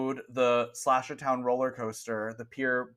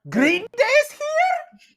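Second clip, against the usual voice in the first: surprised; 8 dB louder, much slower than usual. Acted. Shopkeeper surprised by news.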